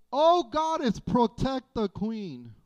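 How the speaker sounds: high, loud mock invocation; exclaimed plea. Preacher voicing a pagan name's meaning to the congregation, high exclaimed plea. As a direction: cry out high, then slow and ease down.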